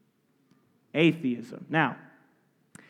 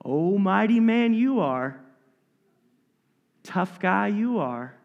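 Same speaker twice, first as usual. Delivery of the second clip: sarcastic tough guy. Acted. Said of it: "He's calling him tough guy".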